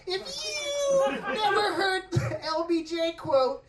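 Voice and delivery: mock earnest redneck lecture; preachy white dude. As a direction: ham up a smug know-it-all lecturing. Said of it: "They're like".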